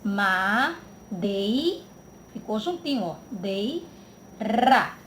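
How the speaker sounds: Madeira cut into syllables, ma and dei and ra; syllable split. Shown as a demonstration. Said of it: "Vamos ver se ele é ditongo".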